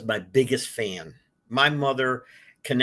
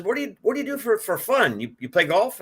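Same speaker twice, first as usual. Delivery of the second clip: imitating the boss; 11 semitones higher than usual. Franchise founder grilling a young applicant, mock-high quizzing voice. Retelling boss's questions in interview.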